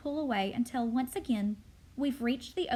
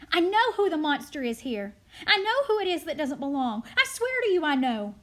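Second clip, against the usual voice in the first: loud, high, urgent protest; frantic pleading; 6 semitones higher, 7 dB louder than usual. Acted. Charlie swearing to the crowd it isn't him, loud frantic pleading. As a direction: plead your innocence at raised volume.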